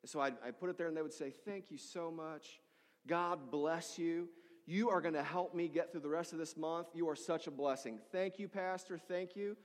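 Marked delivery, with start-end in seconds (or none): 1.3-9.6 overwhelmed gratitude. Retold or imitated. Food bank client thanking the pastor, overwhelmed with gratitude. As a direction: imitate a deeply grateful recipient. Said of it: "they were just overwhelmed with gratitude".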